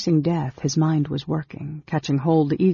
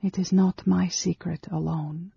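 higher, restrained female character voice; lightly voiced Amberol; 4 semitones higher, 3 dB quieter than usual. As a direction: answer a touch higher, keeping it restrained. Narrator voices Amberol's line.

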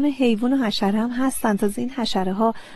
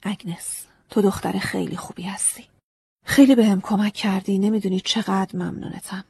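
kind. Acted. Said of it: "صورتش مهربون شد".

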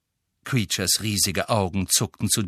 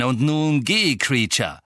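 higher, louder dismissal; firm command; 5 semitones higher, 5 dB louder than usual. A narrator's reading. Master sending the elf away, commanding. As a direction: order him out sharply.

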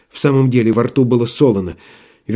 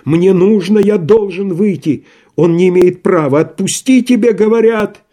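требовательно; 7 semitones higher, 4 dB louder than usual. Acted. Рагин требует выпустить.

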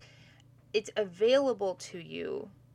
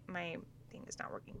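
whispering; 11 dB quieter, faster than usual. Real, not acted. Aside about broken equipment.

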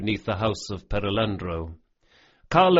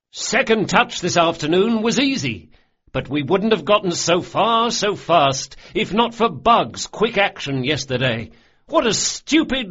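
higher and louder, with STUPID and IDIOTIC spiking high; mock scolding; 8 semitones higher, 5 dB louder than usual. A narrator's reading. Locke praising Bug through mock scolding, exasperated. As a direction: scold him in mock outrage that is really praise.

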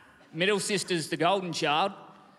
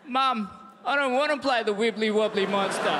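put-on scared kid; 3 semitones higher than usual. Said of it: "frozen stiff ... going".

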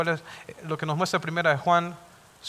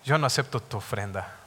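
God's stern voice; 7 semitones lower, 5 dB quieter than usual. Acted. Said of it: "Le dice el Señor".

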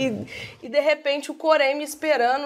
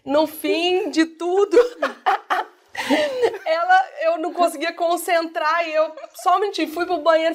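higher voice broken by laughter; laughing as she tells; 4 semitones higher than usual. Real, not acted. Storyteller recalling her own uncontrollable laughing fit, laughing as she tells. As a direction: let real giggles break into the story.

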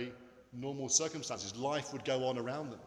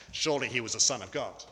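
lightly attempted American accent; badly faked American film-cowboy delivery; John Wayne; 3 semitones lower, 4 dB louder than usual. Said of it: "that's a terrible American accent".

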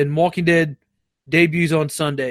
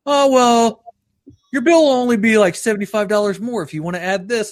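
high-pitched imitation of a sales caller; lightly mock a telemarketer's sales pitch; 5 semitones higher than usual. Charter caller breaking the price to a customer, mock sales voice. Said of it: "That they call me, Charter does".

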